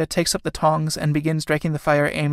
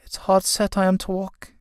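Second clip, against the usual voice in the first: standing up unsteadily; 5 semitones higher than usual. Acted. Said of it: "standing up unsteadily".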